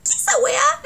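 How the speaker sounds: "¿qué esa weá?" shooting up high at the end; sharp upward Chilean question; rising Chilean intonation. Shown as a demonstration. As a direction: let "¿qué esa weá?" climb steeply.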